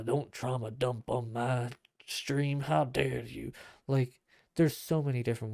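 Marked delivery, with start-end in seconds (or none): 0.0-3.5 mock indignant streamer. Mocking callous streamer, slow.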